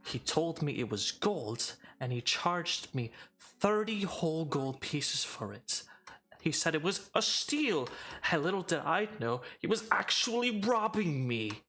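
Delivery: high, indignant, rising rant; furious elf demanding a refund; angry drow complaint. Acted. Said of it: "He's like".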